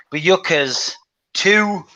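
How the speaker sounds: "Bayukas" said very slowly, feeling out each syllable; slow, careful "Bayukas", unsure of the name; unsure pronunciation. Real, not acted. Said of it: "I couldn't even pronounce the name".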